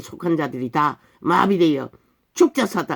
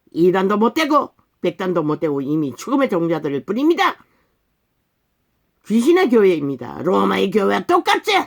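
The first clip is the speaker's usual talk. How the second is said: forceful, scolding pulpit denunciation; fiery preaching; 4 semitones higher, 3 dB louder than usual. Real, not acted. Preacher condemning a church that Jesus left, fiery preaching.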